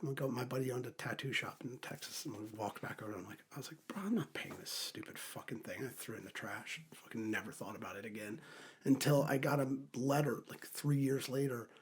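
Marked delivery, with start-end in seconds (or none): 3.9-5.8 hushed scoff. Retold or imitated. Retelling telling buddy about ticket.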